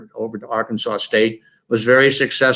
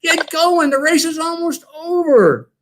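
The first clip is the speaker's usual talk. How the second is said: mock sideline yell to get going; retold yelling. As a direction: call out urgently from the sidelines to a runner. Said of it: "I started yelling at him".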